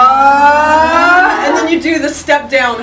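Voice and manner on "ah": demo aah. Shown as a demonstration. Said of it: "so I'll demo it".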